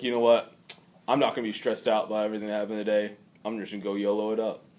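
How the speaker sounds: laid-back dude, a bit quick and low; bro voice. Pretend. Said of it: "That's my bro voice".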